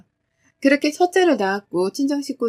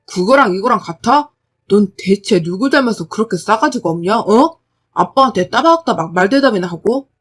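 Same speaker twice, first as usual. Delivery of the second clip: father berating rude daughter; angry father; 5 dB louder than usual. Acted. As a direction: chew her out for talking back.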